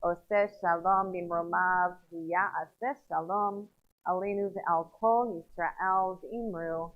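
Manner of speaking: slow, low recitation of the Kaddish; evenly paced, solemn prayer reading; liturgical prayer. Real, not acted. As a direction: lead the congregation in measured Hebrew prayer.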